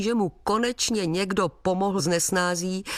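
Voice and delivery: plain reading voice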